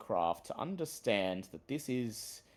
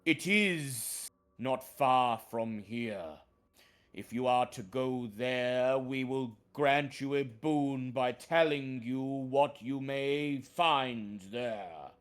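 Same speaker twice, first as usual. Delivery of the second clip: talking tree. Acted. Treant warns of corrupt druid.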